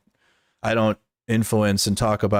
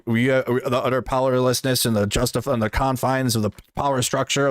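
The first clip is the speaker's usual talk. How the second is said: mocking Hassan; 3 semitones higher than usual. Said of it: "who the fuck talks like that".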